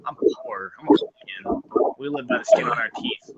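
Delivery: squeaky high joking voice; high mock voice. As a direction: pitch way up, mock pity. Jokey high mock poor voice.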